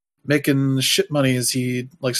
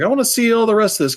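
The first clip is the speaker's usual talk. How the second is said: higher, louder and quick, all keyed up; a burst of mock eagerness; eager inner voice; 9 semitones higher, 4 dB louder, much faster than usual. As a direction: rush it out like you can't wait to binge them. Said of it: "I was like".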